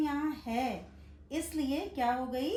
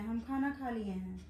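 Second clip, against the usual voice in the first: casual everyday quote. Retold or imitated. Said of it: "अक्सर लोग कहते हैं".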